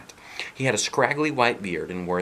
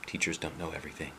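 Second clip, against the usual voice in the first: soft, quick grumble under the breath; muttered; 3 semitones lower, 11 dB quieter, much faster than usual. Acted. Sulky boy grumbling after teacher's dismissal. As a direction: grumble it to yourself. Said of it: "he muttered".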